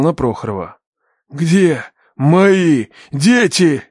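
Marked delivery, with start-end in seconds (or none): 1.3-3.8 loud, very slow, word by word; menacing demand. A narrator's reading. Father presses the captive for his children, menacing. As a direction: demand it forcefully, a long pause between words.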